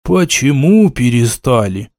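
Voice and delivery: slow, tipsy, puzzled question; drunken surprise. Acted. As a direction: ask it like a tipsy old villager. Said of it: "пьяно удивился староста".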